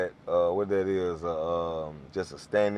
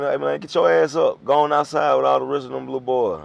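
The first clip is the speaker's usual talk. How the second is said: mock command, raised in pitch; retold bossy order; 4 semitones higher, 4 dB louder than usual. Adult sending little boy outside, mildly loud and bossy. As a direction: order a kid out, a bit loud and high.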